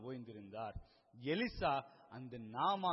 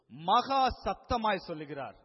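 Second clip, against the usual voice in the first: "மகா சத்தமாய்" boomed high and very loud; emphatic loudness; 4 semitones higher, 10 dB louder than usual. Real, not acted. Preacher marvelling at Jesus' cry, "மகா சத்தமாய்" loud and raised. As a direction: hit "மகா சத்தமாய்" hard, then ease down.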